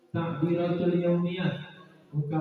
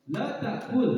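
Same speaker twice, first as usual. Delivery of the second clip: La takul said higher, sharp; high pitch; 6 semitones higher than usual. Shown as a demonstration. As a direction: lift La takul up like a scolding. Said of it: "nadanya tinggi". (La takul dengan nada tinggi)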